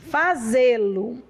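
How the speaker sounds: slow, drawn-out Fazê-lo with a rising end. Shown as a demonstration. Teacher spells out Fazê-lo for the class, slow and rising. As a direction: stretch Fazê-lo slowly, lifting at the end. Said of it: "teacher repeats the word".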